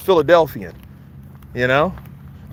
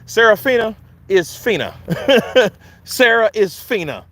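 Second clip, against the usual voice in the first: laughing; 6 semitones higher than usual. Real, not acted. Punning on her name.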